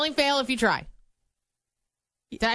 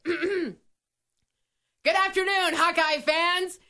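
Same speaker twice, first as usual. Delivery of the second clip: announcer voice; 3 semitones higher than usual. Pretend. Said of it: "Why am I yelling?".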